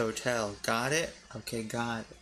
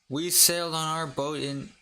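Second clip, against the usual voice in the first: Scottish accent; 3 semitones higher than usual. Shown as a demonstration. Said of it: "say this in a Scottish accent".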